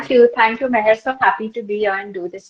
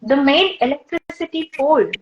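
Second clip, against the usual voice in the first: monologue reading. Acted. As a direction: read it out phrase by phrase, letting each one land. Reads a monologue aloud.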